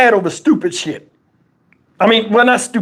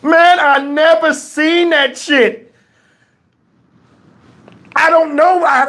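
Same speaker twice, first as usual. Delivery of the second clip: slow, laughing disbelief; 8 semitones higher, slower than usual. Real, not acted. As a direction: chuckle through it slowly. Laughing at memory.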